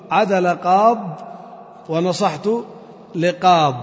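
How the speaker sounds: slow, "قاض" with the ya dropped and a stop; pausal form demo. Shown as a demonstration. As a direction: stop slowly on "قاض" without the ya. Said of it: "فتقول في الوقت". (نطق "قاض" بالسكون دون ياء ببطء)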